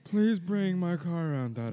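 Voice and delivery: put-on spoiled rich boy. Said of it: "royal daddy's boy".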